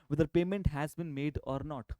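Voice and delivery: slow, every word spelled out; slow and deliberate. Shown as a demonstration. Teacher to students explaining accrual basis, slow and deliberate. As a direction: lean on each word to drive it home. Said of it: "यही line accrual basis आपको समझाएगा".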